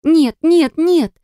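terrified daughter denying everything; frantic repeating. A narrator's reading. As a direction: repeat it like a wound-up toy. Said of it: "затвердила она, как заведённая".

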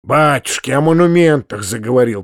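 ordinary delivery

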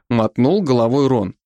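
usual speaking voice

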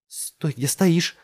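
high, loud and slow command; commanding shout. A narrator's reading. Jess ordering the old man, loud and slow. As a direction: freeze him where he stands. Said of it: "велела она".

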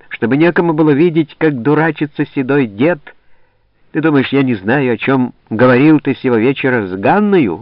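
громкая, высокая злая отповедь; обрушь на старого деда всю ревность; сердитая отповедь. Acted. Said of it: "вскричала она". (свояченица гневно отчитывает Голову)

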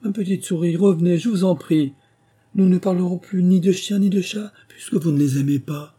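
high-pitched, pleading appeal; kindly beseeching, lifted and carrying; gentle coaxing call. A narrator's reading. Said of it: "Alice la rappela doucement".

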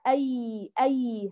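"أي" as an open a gliding into a flowing y; smooth, sustained glide on "أي"; clear soft yaa. Shown as a demonstration. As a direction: let the sound of "أي" run without pressing. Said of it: "هكذا يقرأ الياء اللين الفصيح".

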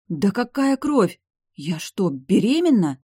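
loud, high, slow disbelief; can't believe what she hears; shocked disbelief. Acted. Heroine learns she is pregnant, shocked and loud.

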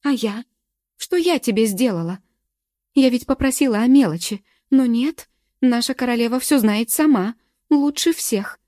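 loud, high, bitter screaming; tearful shrieking. A narrator's reading. Galka shrieking accusations at her friend, tearful. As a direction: spit out the hurt as she screams. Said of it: "Галка уже визжала".

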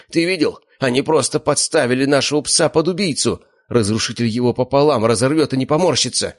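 high, agitated outburst; indignant rant. A narrator's reading. Slavik venting to his brother, agitated rant. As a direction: rant in disbelief.

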